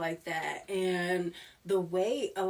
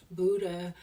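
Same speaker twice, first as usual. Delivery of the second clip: normal talking voice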